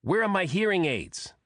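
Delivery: high, nasal quacking voice; duck-like voice. A narrator's reading. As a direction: squawk it like a duck. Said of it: "said in a duck-like voice".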